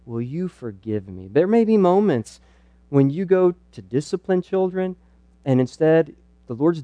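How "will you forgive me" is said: softer, humble asking for forgiveness; sincere apology. Shown as a demonstration. Dad apologizing to his child for sinful anger, soft and sincere. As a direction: quietly own the anger and ask pardon. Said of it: "confess, say, you know".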